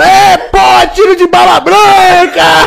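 imitating his shouting; retold shout. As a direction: yell it like he did that night. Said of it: "Aí ele gritava".

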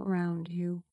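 soft breathy whisper. Acted. Meditation guide asking listeners to hear the room, whispered.

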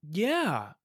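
talking with a numb mouth; words slurred after wisdom teeth. Real, not acted. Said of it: "my mouth is a little funny".

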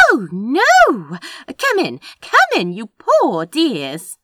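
very high, loud, effusive concern; fussing sympathy. A narrator's reading. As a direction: gush with pity as you usher them in. Woman fusses over crash victims.

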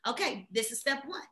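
quiet, level mock game plan; calm self-talk. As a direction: talk yourself through it step by step. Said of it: "You're gonna be like".

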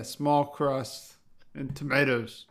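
slow, deliberate mock New York accent. Defending the pizza bit, slow New York accent. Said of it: "that's how they say it".

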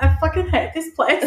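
high, loud whiny outburst, laughing; bratty kid yell. Retold or imitated. Nine-year-old snapping back at her mum, high and loud through laughter. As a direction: throw a laughing mock tantrum.

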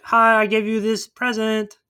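a hint of a sweet party guest; mock gift-giver. Mock chirpy gift-giver in retelling.

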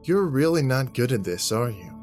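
mocking. Jack mocking the man's trash talk, taunting. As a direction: tease him with mock disbelief. Jack mocks his opponent.

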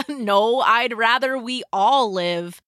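lightly cheerful reply; mildly upbeat, understated brightness; cheery. A narrator's reading. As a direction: answer with easy good cheer. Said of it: "Galen said cheerily".

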